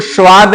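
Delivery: "स्वाद" with a sh at the start, like "श्वाद"; wrong hushed स्वाद. Shown as a demonstration. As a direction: say "स्वाद" thinly with sh for s. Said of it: "इसको स्वाद नहीं बोलना है". ("स्वाद" को "श्वाद" जैसा)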